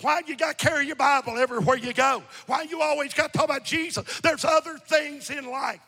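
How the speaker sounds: forceful preacher voicing objections; insistent pulpit delivery; preaching. Real, not acted. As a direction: throw out the scoffers' complaints from the pulpit. Preaches, mocking family objections.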